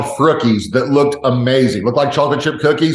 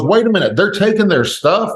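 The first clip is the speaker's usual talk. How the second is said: put-on higher, indignant child's question; outraged little boy; 6 semitones higher than usual. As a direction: play the shocked five-year-old. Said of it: "He goes".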